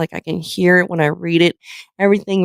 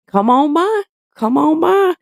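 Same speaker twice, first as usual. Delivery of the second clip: cheery invitation; 9 semitones higher than usual. Retold or imitated. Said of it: "And I'm like".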